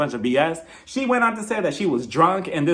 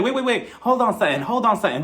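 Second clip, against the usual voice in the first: imitated butting-in, pitched up at first; urgent interruption; 4 semitones higher than usual. Kyle cuts in on Sutton's miscarriage remark, urgent interruption. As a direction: jump in to halt the talk, mock-urgent.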